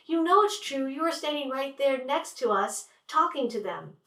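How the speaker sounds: pin him down, no way out; insistent accusation. Retold or imitated. Sunshine contradicting her brother in front of dad, high insistent.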